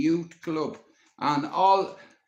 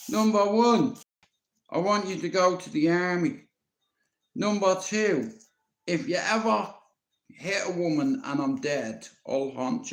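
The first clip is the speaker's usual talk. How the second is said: firm granny; 3 semitones higher than usual. Retold or imitated. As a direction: count off commands like a strict granny. Granny laying down rules.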